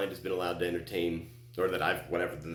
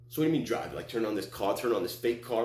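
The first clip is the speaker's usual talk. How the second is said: incredulous; 3 semitones higher than usual. Retold or imitated. Arguing back with the voice.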